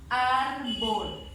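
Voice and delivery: "árbol" with ÁR punched loud; two syllables, loud ÁR leading "árbol"; stressed syllable demo. Shown as a demonstration. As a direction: hit ÁR, then let "árbol" fall. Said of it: "identifico la fuerza de voz".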